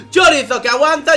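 loud, high excited call; excited shout. Real, not acted. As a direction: shout the name out. Caster shouts the same play.

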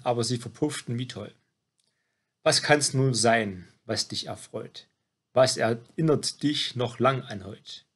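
measured, rhymed poem reading; poem recitation. Acted. Reciting a birthday poem to someone turning seventy, poem recitation. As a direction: recite it verse by verse, pausing between lines.

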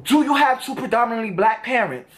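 a retold, hostile challenge; confrontational energy. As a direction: repeat his combative line with the same edge. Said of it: "He comes with this energy like".

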